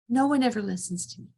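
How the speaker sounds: angry. Retold or imitated. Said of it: "I've really lost my temper".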